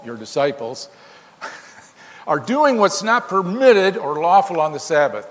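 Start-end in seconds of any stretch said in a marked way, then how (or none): 2.3-5.3 emphatic rebuke. Retold or imitated. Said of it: "it's an emphatic rebuke".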